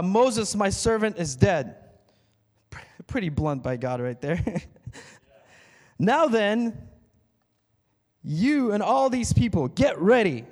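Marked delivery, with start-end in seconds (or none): 0.0-1.8 booming voice of God. Acted. Preacher booming God's blunt words to Joshua. 6.0-10.4 loud, high rallying command; commanding voice of God. Acted. God rallying Joshua and the people, loud command.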